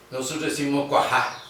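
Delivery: "cuajá" with a G-like h sound in the middle; Corrientes cuajá. Shown as a demonstration. Teacher showing how Corrientes folk say "cuajá". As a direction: say "cuajá" with a throaty j between the vowels. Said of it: "le ponemos una G".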